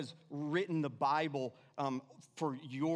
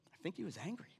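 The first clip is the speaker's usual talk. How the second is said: softer, lifting on he; soft take; 3 semitones higher, 7 dB quieter, much faster than usual. Shown as a demonstration. Preacher murmurs to the congregation, softer, rising. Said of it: "second take, softer".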